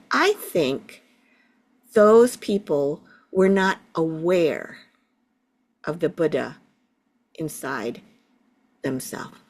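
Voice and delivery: gently imitating a four-year-old thinking aloud; thoughtful voice. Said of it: "he said in a thoughtful voice".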